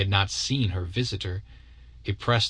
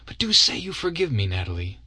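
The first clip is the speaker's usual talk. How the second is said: entreating, softening. Acted. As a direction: coax her into forgiving. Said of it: "he entreated, softening".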